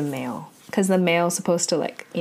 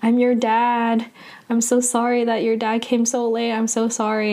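slightly higher, mildly plaintive retelling; a touch of mock lament; imitated tearful apology; 4 semitones higher than usual. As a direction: act out a crying dad's apology, understated. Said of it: "he's, like, crying".

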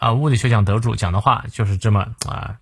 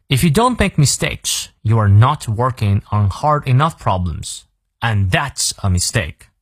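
model reading. Shown as a demonstration. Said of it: "我们来逐词看一下".

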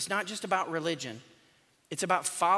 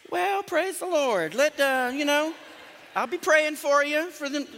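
awkward preacher voice; 7 semitones higher than usual. Retold or imitated. Mock awkward pastor reply.

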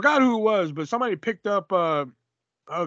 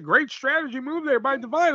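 mock commentator; 7 semitones higher than usual. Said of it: "Mike Tenay was like".

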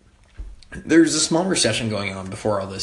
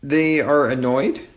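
slow, louder and higher, each word leaned on; emphatic annoyed; 4 semitones higher, 6 dB louder, slower than usual. Acted. Teacher telling the class the US is annoyed, slow and emphatic. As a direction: drag it out to stress the annoyance. Teacher stressing America's reaction.

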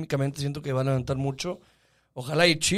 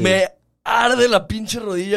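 slow, louder groaning complaint; hungover; 5 semitones higher, 6 dB louder, slower than usual. Real, not acted. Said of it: "Güey, estoy crudo".

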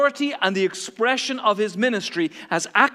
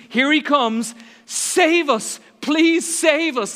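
high, slow pleading shout; pleading crowd cry; 7 semitones higher, 4 dB louder, much slower than usual. Retold or imitated. Preacher voicing the crowd begging, high pleading cry. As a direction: call out begging to be saved. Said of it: "That's what they're shouting".

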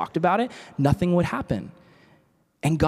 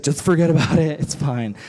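put-on mild girl voice, punchy first line; best girl voice; 3 dB louder than usual. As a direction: try a girlish mom voice, opening loud. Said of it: "It's the best girl voice I can do right now".

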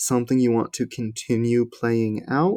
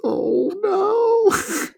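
sudden high oh no; dismayed. Real, not acted. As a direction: gasp it out in dismay. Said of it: "reacting to the ominous line".

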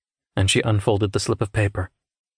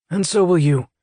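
solemn scythe reply; 8 semitones higher than usual. A narrator's reading.

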